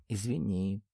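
soft, understated apology; small "oops" apology. A narrator's reading. Юлианна apologises after a stolen kiss, soft small voice. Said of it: "ойкнула она".

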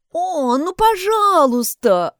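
high, slow drawn-out begging; pleading. A narrator's reading. Maggie begs Mary to tell them, pleading slowly. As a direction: beg like a child. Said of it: "взмолилась Мэгги".

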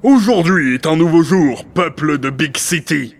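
stately political oration with ringing openings; grandiose proclamation. Acted. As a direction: proclaim it like a ruler. Grandiose speech proclaimed to the city.

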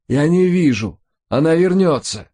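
very high panicked wail; howling. A narrator's reading. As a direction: cry out in blind terror. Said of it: "взвыл Рой". (панически воет)

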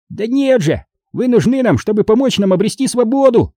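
high-pitched solemn declaration; earnest high gnome proclamation. A narrator's reading. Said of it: "торжественным тоном заявил Фикс".

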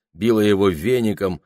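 plain reading voice

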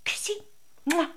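high doting coo with kisses; baby talk to a dog. Acted. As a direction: coax the dog to kiss him, high and sweet. Cooing to the found dog.

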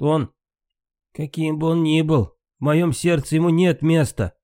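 sharp interruption. A narrator's reading. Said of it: "резко перебил его Брунхильд".

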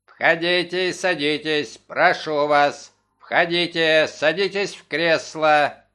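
a lightly voiced parrot, low and throaty, slow at the end; throaty bird croaking an invitation; low guttural parrot. Parrot greets visitors in a mild low throaty voice. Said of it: "сказал низким гортанным голосом".

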